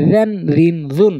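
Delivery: "রেন, রিন, জুন" with tongue tip at the front teeth's edges; interdental articulation. Shown as a demonstration. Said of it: "জিব্বার আগার সামনে দুই দাঁতের আগা থেকে".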